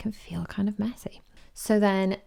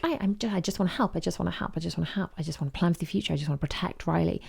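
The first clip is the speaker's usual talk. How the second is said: quick, stammering mock anxiety; acted nervous, eager babble; anxious; much faster than usual. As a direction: tumble out repeated pleas in a rush. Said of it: "anxiety comes in and she's like".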